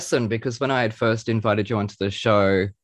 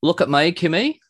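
Australian catchphrase, rising on Kimmy; broad Aussie "look at moy"; broad Aussie accent; 5 semitones higher than usual. Shown as a demonstration. Host demonstrates a phrase for guest, broad Aussie accent. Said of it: "in your best Aussie accent".

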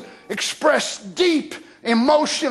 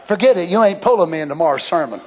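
comic refusal; 2 semitones lower, 3 dB louder, much faster than usual. Acted.

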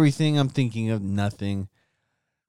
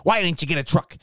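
mock heckling; 5 semitones higher than usual. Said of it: "Maybe I'm saying".

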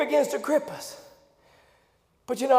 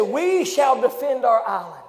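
Churchill quote. Retold or imitated. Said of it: "Winston Churchill would say it like this".

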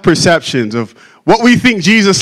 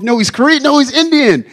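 arguing pastors; 7 semitones higher than usual. Acted. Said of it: "They're going back and forth".

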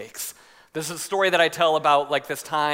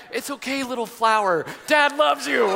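high, hammed-up sweet reassurance; mock-gentle fatherly comfort; tender dad; 6 semitones higher than usual. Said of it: "in my head it's like".

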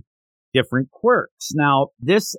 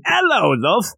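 Irish accent impression; 10 semitones higher than usual. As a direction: ham up a stage Irish accent, pitched high. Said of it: "I can't even do an accent with you".

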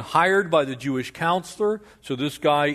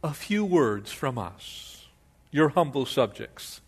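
humble subject; 3 dB quieter than usual. Acted. Preacher voicing humble flatterer.

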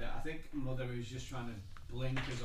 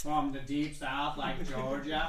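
attempted Southern accent; slower than usual. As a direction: try a Georgia drawl. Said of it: "I'm terrible at accents".

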